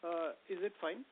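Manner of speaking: faint, far off from the mic; quiet and distant; barely audible. Real, not acted. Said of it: "Not really".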